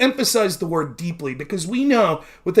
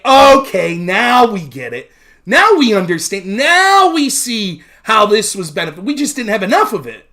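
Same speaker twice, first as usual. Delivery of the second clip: louder mock realization; mock converted locals; 7 dB louder than usual. Staten Islanders finally getting it, loudly mocked. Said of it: "then they'll say".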